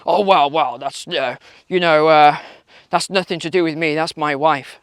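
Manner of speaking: a hint of Rishi Sunak squirming; Rishi Sunak parody. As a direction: dodge the question like a caught-out minister. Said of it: "Mister, uh, Rishi".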